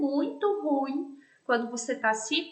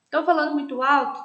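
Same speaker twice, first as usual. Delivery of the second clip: a touch louder, demonstrating too loud; speaking too loud; 5 dB louder, faster than usual. Shown as a demonstration. Teacher showing students an overly loud voice, mildly louder. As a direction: show the class a voice that's too loud. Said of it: "cuidar com a entonação da minha voz".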